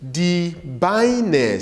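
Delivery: drawn-out, careful "Die Beine"; teacher stretching the German vowels; model pronunciation. Shown as a demonstration. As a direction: say it for learners to repeat. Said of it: "Say it after me".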